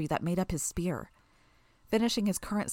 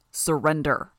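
intoned; 2 semitones lower, 5 dB louder, slower than usual. A narrator's reading. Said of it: "he intoned".

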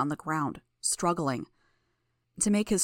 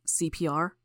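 feeble. A narrator's reading. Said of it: "sounded painfully feeble as he spoke".

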